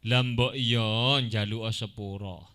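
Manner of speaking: slow, coaxing polite ask; gentle request. Shown as a demonstration. Teacher demonstrates a polite request, gentle and slow. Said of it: "meminta kepada orang lain secara halus".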